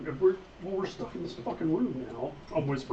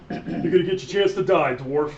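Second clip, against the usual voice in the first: loud, raised threat to a foe; mock-menacing battle challenge; in-character threat; 2 semitones higher, 7 dB louder, slower than usual. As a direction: threaten the dwarf loudly, in character. Player voices threat at dwarf.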